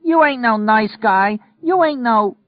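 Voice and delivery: very high, loud, slow yell; yelling down the stairs. Acted. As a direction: bellow it down the stairwell after him. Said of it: "yelling down".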